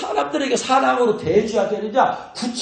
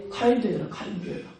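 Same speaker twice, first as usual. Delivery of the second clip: whispered urging; 6 dB quieter than usual. Shown as a demonstration. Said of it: "English word version".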